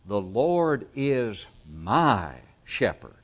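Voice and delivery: slow, with "my" drawn out and set apart; personal emphasis. Acted. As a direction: linger on "my" to make it personal. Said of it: "That's personal".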